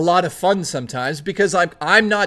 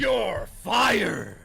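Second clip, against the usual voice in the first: mock shout; 3 semitones higher, 5 dB quieter than usual. Mock boss punchline shout.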